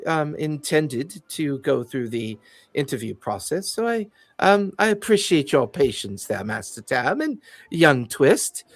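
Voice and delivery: a lightly voiced condescending fey noble; polite, fussy and faintly hesitant officialdom; haughty fey official. GM as fey security chief greeting the party, lightly haughty.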